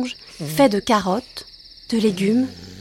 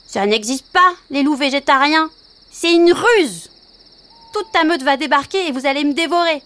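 high, quick little rabbit; a nervous bunny, pitched up; 5 semitones higher than usual. Acted. Frightened rabbit voiced.

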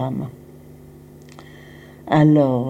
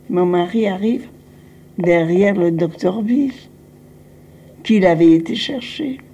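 ordinary talk

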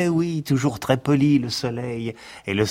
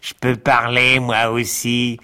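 unpleasant little voice. Acted. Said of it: "une petite voix désagréable".

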